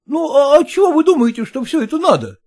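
high, reluctant, half-grumbling clerk voice; grudging son-in-law. Acted. Son-in-law balking at the father-in-law's orders, high and grudging. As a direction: give in, then balk at the cost. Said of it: "пробормотал он".

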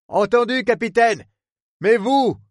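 high voiced superintendent, puzzled; agree, then ask in surprise; surprised superintendent. Superintendent Murphy answering the captain, surprised.

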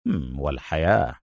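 low, soft wry afterthought; sardonic Adham. A narrator's reading. Adham finishes his retort to Khaled, softly sardonic. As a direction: add it drily after a little hum. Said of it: "عادت ابتسامته الساخرة".

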